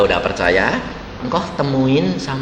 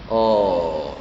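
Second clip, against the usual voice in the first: mild calming; 2 semitones lower than usual. Retold or imitated. Pastor calms angry parents.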